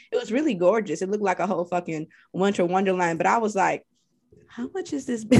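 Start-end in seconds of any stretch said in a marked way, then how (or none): 4.5-5.4 mock alarm. Quoting herself at house.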